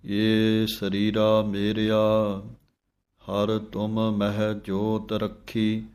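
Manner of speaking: slow chanted reading of the hymn; scripture recitation. Shown as a demonstration. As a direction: recite the verse slowly and devoutly.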